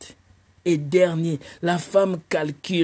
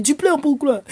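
put-on high girl voice; 11 semitones higher, 4 dB louder than usual. Girl asks why he cries.

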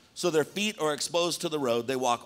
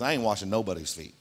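Peter's real meaning; 6 semitones lower than usual. Retold or imitated. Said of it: "What he's really saying is".

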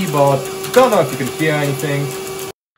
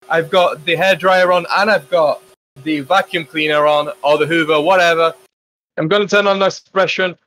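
raised voice over the noise; loud voice; 3 semitones higher, 5 dB louder than usual. Real, not acted. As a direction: talk loudly over the hairdryer. Talking over hairdryer and hoover.

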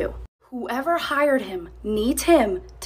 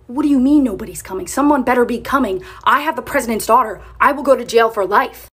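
louder, fast, rattled kidnapper losing it; panicked outburst; 6 dB louder than usual. Acted. Kidnapper panicking at the calm girl, loud and fast. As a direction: blurt it out like a man realising he's trapped.

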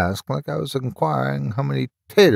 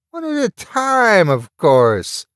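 much higher, indignant bellow; 10 semitones higher, 5 dB louder, slower than usual. A narrator's reading. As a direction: bellow it as if answering a fool. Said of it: "He bellowed".

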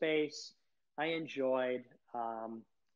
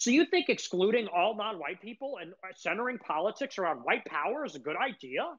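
smarmy condescending question; 5 semitones higher than usual. Retold or imitated. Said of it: "smarmy, condescending, dishonest questions".

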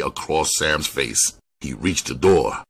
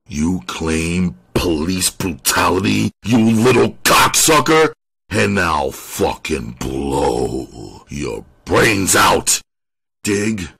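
angry threat. Acted. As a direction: threaten the suspect with mounting rage. Enraged detective threatens the suspect.

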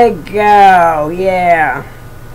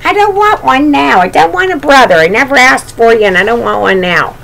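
put-on mad little boy; 3 semitones higher than usual. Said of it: "And he says".

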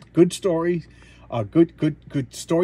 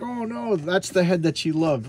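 high mock panic, pitched well up; hammed-up dismay; 4 semitones higher than usual. He mourns the lost head, in mock dismay. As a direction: play the panic for laughs. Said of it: "He's like".

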